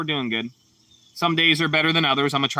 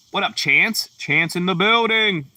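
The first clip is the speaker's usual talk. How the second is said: higher, drawn-out shout-out to a viewer; hype greeting; 5 semitones higher, slower than usual. Real, not acted. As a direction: announce him like he just walked in.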